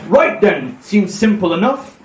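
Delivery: a hint of old sea captain; lightly voiced sea-dog; Captain Birdseye. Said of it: "I sound like Captain Birdseye".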